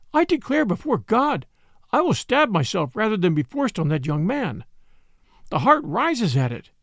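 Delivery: put-on a young woman's high, pleading refusal; desperate young woman. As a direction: beg and protest in one breath. Girl refuses forced marriage.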